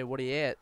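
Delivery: "What are you at?" squeezed into "whaddy-at"; casual local greeting, "What are you at?" slurred into one word; Newfoundland slang. Shown as a demonstration. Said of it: "go up to any Newfoundlander and say".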